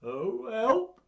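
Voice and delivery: high, very loud theatrical terror; panicked cry. Acted. Mouse meeting the Gruffalo, high panicked shout. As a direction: cry out in alarm, stretching the last word.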